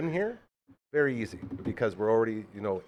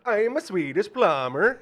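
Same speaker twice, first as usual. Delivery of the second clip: high, loud, drawn-out mock Swedish accent; 9 semitones higher, 6 dB louder, slower than usual. Would-be plumber proving his accent to doubters, mock Swedish accent. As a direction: stretch it out in a hammed-up Swedish accent. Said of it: "that's a pretty good accent".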